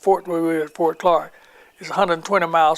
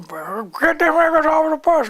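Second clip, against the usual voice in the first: hostile crowd yell; 11 semitones higher, slower than usual. Retold or imitated. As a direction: drag out the shouted demand. Crowd yelling at bus.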